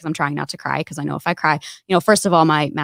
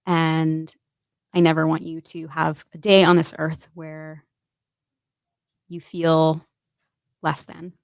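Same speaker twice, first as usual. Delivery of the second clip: tender message. Real, not acted. Message to her future children.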